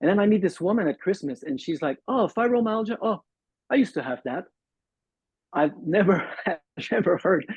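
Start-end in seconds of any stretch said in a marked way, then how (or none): 2.1-4.5 breezy and offhand, like it's nothing; casual. Retold or imitated. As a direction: toss it off as no big deal. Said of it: "anybody say it so casually".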